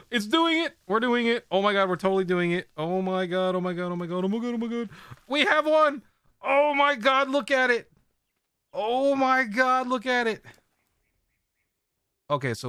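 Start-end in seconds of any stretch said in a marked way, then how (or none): 0.1-10.4 excited. Real, not acted. Streamer watching tame finish, ecstatic squealing. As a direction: gasp then high, loud squeals.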